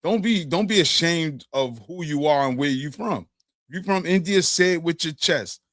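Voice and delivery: hyped-up urging. Retold or imitated. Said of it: "He's like".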